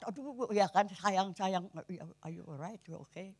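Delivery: put-on fussing over a fallen child, then softening; soothing parent.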